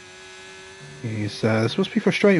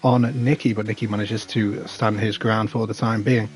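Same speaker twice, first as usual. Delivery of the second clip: motorsport commentator. Acted. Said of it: "Damn, I've got some energy today".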